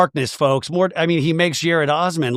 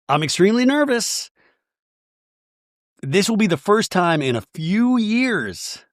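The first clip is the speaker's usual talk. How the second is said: put-on high voice, stretching the endings; mock nervous woman; 7 semitones higher than usual. Voicing Mary's confession.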